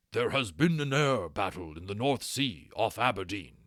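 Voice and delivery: a hint of a brisk, grave dragon giving orders; lightly voiced urgent instructor dragon. A narrator's reading. Dragon instructor delivers urgent news.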